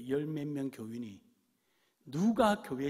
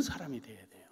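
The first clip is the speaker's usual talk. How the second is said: whisper; 5 dB quieter than usual. Acted. Whispered aside in sermon.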